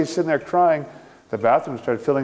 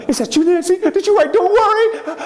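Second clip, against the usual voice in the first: put-on startled girl; 3 dB louder than usual. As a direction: ask the ghost in awe. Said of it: "She said, gasps".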